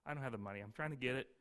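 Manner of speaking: a man quietly pleading with the tax collector; timid pleading. Retold or imitated. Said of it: "So you say to the guy".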